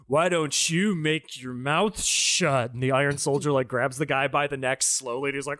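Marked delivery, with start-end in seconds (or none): 0.1-2.7 slow, deliberate mock kid delivery; imitated movie kid. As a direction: drag the threat out, mimicking the kid. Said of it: "the kid's just like".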